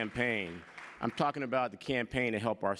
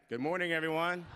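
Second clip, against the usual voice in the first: higher, bigger greeting to wake the room; energetic greeting; 5 semitones higher than usual. Real, not acted. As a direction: say it again with more energy, pitch up. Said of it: "Oh, wow, it's like that".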